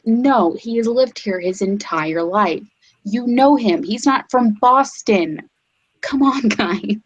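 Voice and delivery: pleading with the crowd, half laughing; mock exasperated local. Retelling locals insisting he is no Bostonian, mock exasperated. Mimicking locals defending him.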